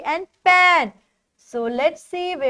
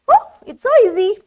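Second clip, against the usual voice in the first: fast, higher, louder cheer; excited delight; 5 semitones higher, 7 dB louder, much faster than usual. Pretend. Teacher shows pupils how easy it is, excited and quick. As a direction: toss it off with mock glee.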